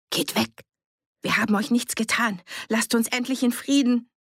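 high, hoarse refusal; strained, husky plea to be left alone. A narrator's reading. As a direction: hoarsely warn them off from behind a door. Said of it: "Sie klang heiser".

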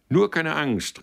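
loud, high reassuring call to the crowd; a mayor calling loudly to the crowd. Acted. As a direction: call out over the crowd to calm them. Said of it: "rief er".

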